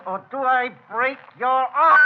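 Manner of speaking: put-on bellowing at the girl he bullies for letters; furious shout. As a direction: roar the threat at her. Threatening to break her arm.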